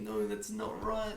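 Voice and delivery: strange, very high, hushed, squeaky soft voice. Imitate how the other person reacts when a risky joke is said, in a weird high-pitched voice. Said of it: "this weird high pitched voice and be like".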